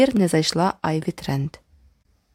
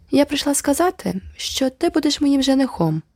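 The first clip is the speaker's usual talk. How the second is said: announcing; 8 semitones higher than usual. A narrator's reading. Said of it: "повідомила вона".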